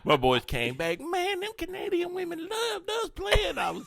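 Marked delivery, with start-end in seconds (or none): 1.0-3.6 high, slow hammed-up shout; mock bragging friends. Friends back from Canada, bragging in a high mock shout. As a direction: crow it like a boastful buddy.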